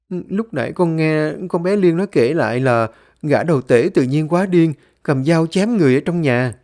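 a hint of alarm in a youngster; grandchild reporting. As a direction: explain urgently to grandpa.

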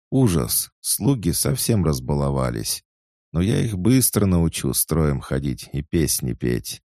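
put-on high, loud, eager young maid; chatty excited maid. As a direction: gush it out breathlessly eager. Svetika indignant and lively. (восторженная болтливая служанка)

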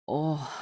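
low, subdued "oh" groan; restrained groan in place of a howl; understated howl. A narrator's reading. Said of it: "провыл Давид".

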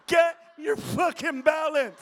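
slow shouted mock yell; mock scream. Viewers at home yelling at the president, slow shout. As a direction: yell it out slowly, half-mocking. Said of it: "people at home with cerebral palsy are screaming".

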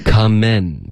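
"Come in" with the second syllable as men; model open eh. Shown as a demonstration. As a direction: demonstrate an eh vowel in "Come in". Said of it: "eh的音要注意".

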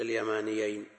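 "اليمانيين" with a single, undoubled ya; light ya. Shown as a demonstration. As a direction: say "اليمانيين" without doubling the ya. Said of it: "بتخفيف الياء".

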